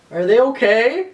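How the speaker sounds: high-pitched worried question; mock freaking out. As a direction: imitate your own drunken alarm. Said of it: "I just started freaking out".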